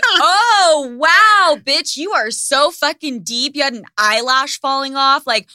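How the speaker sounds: loud, high, mocking gushing; over-the-top sarcastic wow; sarcastic awe. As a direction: gush with exaggerated fake amazement. Sarcastic fake awe at influencer.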